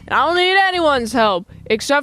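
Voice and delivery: lightly mocking boastful voice; arrogant. Fred insisting he needs nobody, mock arrogance. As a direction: boast with exaggerated self-importance.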